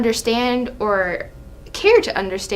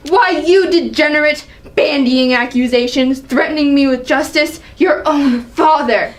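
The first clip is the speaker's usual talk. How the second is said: raised, indignant tirade; angry accusation; 3 semitones higher than usual. Acted. Father accusing his son, angry. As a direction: lash out at a disloyal son. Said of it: "Seeing the angry side of Allie".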